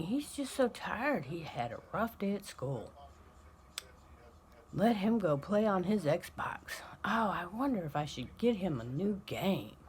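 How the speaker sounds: hushed, cooing pity half-whispered; mock-whispered mother's sympathy; doting parent. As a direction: tiptoe around the poor tired kid.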